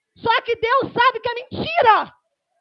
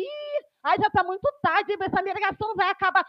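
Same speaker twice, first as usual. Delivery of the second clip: impatient churchgoer; 2 semitones lower, 5 dB quieter than usual. Retold or imitated. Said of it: "aquele que fica assim".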